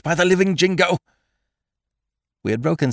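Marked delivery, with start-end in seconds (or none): 0.0-1.0 1 urgent dismay. A narrator's reading. Stranger despairs, rushing.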